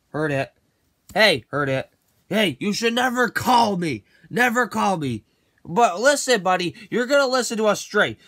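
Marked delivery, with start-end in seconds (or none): 2.3-7.8 angry warning. Acted. Target shouts at prank callers.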